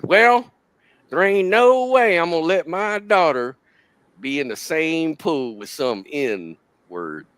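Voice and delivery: hammed-up outraged southern mother; imitating the racist lady. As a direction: start high and loud, then settle. Racist mother refuses shared pool.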